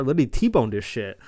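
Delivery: loud, punched exclamation; emphatic disbelief. Real, not acted. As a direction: hammer it out in amazement. Amazed recap of car crash.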